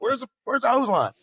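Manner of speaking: going off. Retold or imitated. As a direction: shout it again like losing it on scene. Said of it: "I just went off".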